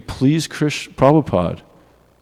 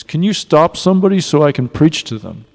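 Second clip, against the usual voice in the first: raised, imploring retold request; urgent cry from the gut, lightly imitated; visceral plea; 3 semitones higher, 4 dB louder than usual. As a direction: imitate a heartfelt plea to preach. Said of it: "It was a cry. It was a visceral".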